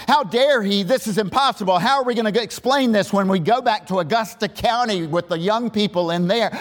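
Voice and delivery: imitating shocked Pharisee-like adults; mock indignation. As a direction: play the scandalized churchgoers, half mocking. Adults indignant over polygamist chief.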